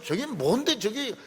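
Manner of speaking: loud, high angry declaration; angry outburst. Acted. Young David angrily vows to fight the giant, loud and high. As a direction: bristle and demand to fight. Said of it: "더 화를 내면서".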